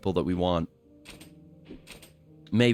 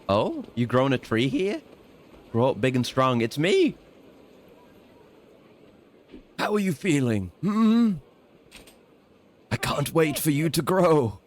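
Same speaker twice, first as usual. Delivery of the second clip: tender to a tree; 3 semitones higher than usual. Acted. The character talking to his tree, lightly cooing. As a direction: coo at the little tree.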